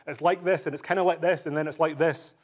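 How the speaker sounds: a hint of a man lost for words; groping for words. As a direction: act out someone fumbling to describe it. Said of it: "Notice how he says".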